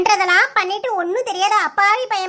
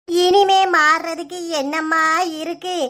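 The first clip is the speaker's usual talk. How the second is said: slow lament; 4 semitones lower, slower than usual. Acted. Mother laments estranged brother.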